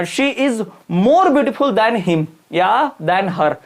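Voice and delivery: very slow, each word spaced out for the class; slow dictation. Shown as a demonstration. Teacher slowly dictating an example sentence to students. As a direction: spell it out slowly as if students are writing it down. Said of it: "teacher dictating an example sentence".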